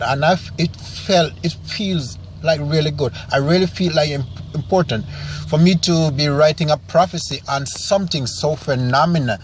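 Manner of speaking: emotional, near tears; barely holding back tears; voice about to break. Real, not acted. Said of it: "this is why I sound so emotional right now".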